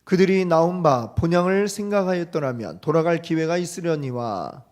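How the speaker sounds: loud, measured Bible reading; scripture reading. Acted. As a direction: read the verses solemnly to the congregation. Reads scripture aloud.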